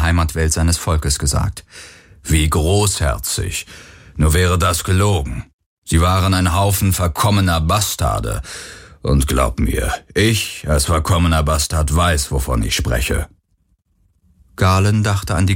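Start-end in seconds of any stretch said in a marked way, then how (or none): 2.2-13.3 a slightly lower, sardonic voice, dragging the first words; a hint of a weary, scornful elder; lightly voiced bitter old recording. Vago's recording mocks his own people, lightly lowered sardonic voice.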